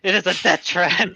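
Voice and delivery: talking with squished cheeks. Real, not acted. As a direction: speak with your cheeks squeezed. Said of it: "you're squishing my cheeks".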